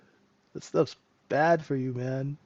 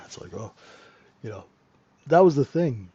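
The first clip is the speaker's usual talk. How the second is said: usual speaking voice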